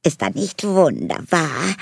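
high, delighted elf voice; gushing elf. Acted. Elf gushes about prince. (begeisterte Elfe)

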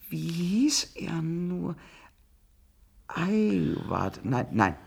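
slow whisper, searching memory; whispered to self. Acted. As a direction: breathe the question to yourself. Sucht flüsternd nach dem Namen. (langsames Flüstern zu sich selbst)

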